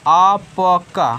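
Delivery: आपका very slow and loud, as aa-pa-kaa; sounding out. Shown as a demonstration. Teacher reads the written word to children, आपका slowly sounded out. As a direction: stretch each syllable of आपका.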